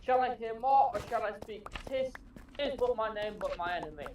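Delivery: declaimed like a stage actor doing Shakespeare; grand theatrical verse reading, each line given weight; orator's recitation. Acted. Reciting Juliet's balcony lines for the hosts, theatrical orator's voice. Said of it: "you have a very good orator's voice".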